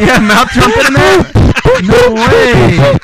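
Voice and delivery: excited. Real, not acted. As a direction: cheer it on in disbelief. Hyping a beatbox performance.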